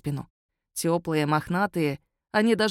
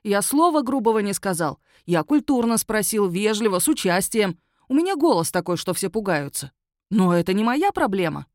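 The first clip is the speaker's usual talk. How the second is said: aggrieved werewolf; 3 semitones higher, 3 dB louder than usual. Acted. Werewolf to the magistrate, aggrieved and loud. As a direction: insist you were polite.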